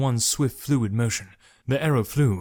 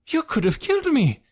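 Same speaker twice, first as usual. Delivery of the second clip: high, loud accusing shout; 4 dB louder than usual. Acted. Jekrom shouts at Malik for nearly hitting him. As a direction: yell it in outrage. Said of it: "Jekrom raised his voice, suddenly shouting".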